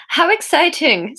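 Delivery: put-on retry the dodgy Swedish accent; messy Swedish accent. Narrator retries Anya's line, messy Swedish accent. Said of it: "Anya's accent is".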